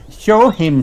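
high little piglet voice; Peppa. A narrator's reading. Peppa suggests a game to George, high-voiced. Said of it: "says Peppa".

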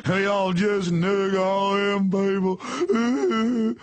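mock a redneck Southern voice; hammed-up Southern drawl; Southern accent. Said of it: "not fair to do Southern accents".

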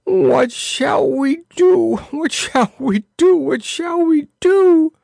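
high, slow, wailing lament repeated; moaning. A narrator's reading. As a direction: rock and wail in despair.

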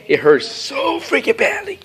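high-pitched, emphatic whine of pain; pained complaint. Real, not acted. Complaining about the cat bite.

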